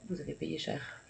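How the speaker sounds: usual speaking voice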